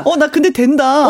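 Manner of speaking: slow lisping cutesy talk; lisping baby talk. Shown as a demonstration. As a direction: lisp it out like a child. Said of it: "요렇게 혀 짧은 소리를 조금 하시면".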